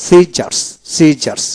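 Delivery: "সিজার্স" with one sound for double s. Shown as a demonstration. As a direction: model "সিজার্স", never doubling the s. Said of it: "double এস এতে একটা এস এর উচ্চারণ হবে".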